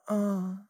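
high human moan from a cat; human-voiced cat moan. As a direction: moan like a person, not a cat. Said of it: "like a human voice though".

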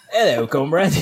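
lightly mock British greeting; British accent. Echoing a friend's joke about the show, mock British accent. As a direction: put on a silly British accent. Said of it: "Imagine I have a British accent".

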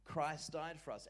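slow, weighty reading, word by word; solemn, deliberate scripture read. Shown as a demonstration. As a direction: draw each phrase out slowly. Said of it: "Everyone say".

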